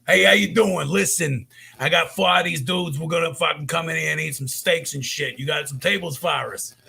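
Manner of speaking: brash wiseguy greeting, belting the opening; Uncle Rocco voice. Retold or imitated. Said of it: "does this voice that referred to as Uncle Rocco".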